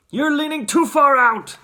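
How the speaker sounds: high, loud warning shout; alarmed father calling out; Mister Gloop. A narrator's reading. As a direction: warn him urgently at a yell. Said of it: "shouted Mister Gloop".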